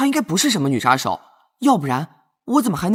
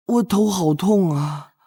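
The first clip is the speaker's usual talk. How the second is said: aching head; slower than usual. Acted.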